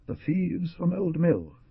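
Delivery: slow, faltering dying voice; weak stutter. A narrator's reading. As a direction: force the words out while dying. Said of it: "managed to stutter".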